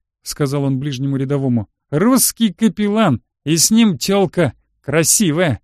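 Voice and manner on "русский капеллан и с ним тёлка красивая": lightly voiced leering soldier, higher and slower at first; a touch of a taunting lilt; jeering soldier. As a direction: call it out to a buddy, mildly jeering. Drunk soldier jeers to his buddy.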